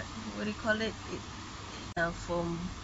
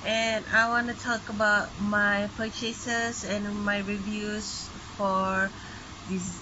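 raised voice over the rain; talking louder. Real, not acted. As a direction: push the voice over the downpour. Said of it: "I need to talk louder".

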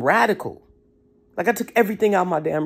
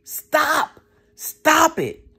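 higher pleading cry, stop stop stop; screaming organs; 6 semitones higher than usual. Retold or imitated. Organs begging the overfed owner, high pleading cry. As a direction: beg like an overworked organ close to dying. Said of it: "Your organs is screaming".

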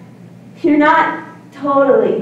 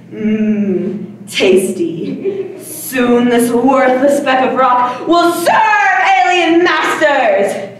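hammy gloating villain speech; dark lord. Pretend. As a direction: savor the victory like a tyrant. Kid playing alien overlord.

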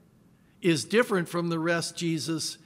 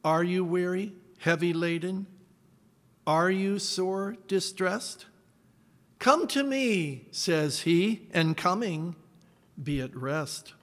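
hymn reading. Shown as a demonstration. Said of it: "Let me read you the lyrics of this hymn".

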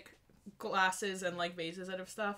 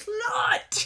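much higher, louder squawked insult; mock drunk yell; 14 semitones higher, 7 dB louder than usual. Retelling drunk Legolas insulting her, high mock yell. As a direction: fling it down like a tipsy heckler. Drunk Orlando Bloom yelling retold.

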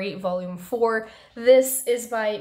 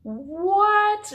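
high, surprised What; light half-voiced shocked cry; mild mock scream; 12 semitones higher, 5 dB louder than usual. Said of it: "just made me scream".

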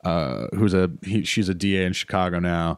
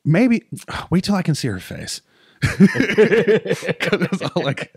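higher, louder voice dissolving into laughter; laughing fit; 10 semitones higher, 3 dB louder, slower than usual. Retold or imitated. Telling Anna to wait for the face, laughing higher. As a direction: replay the helpless giggle. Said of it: "And I was like".

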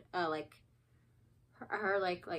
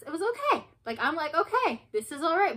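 mock enthusiasm; 8 semitones higher, 9 dB louder than usual. Mock-enthusing about Twilight.

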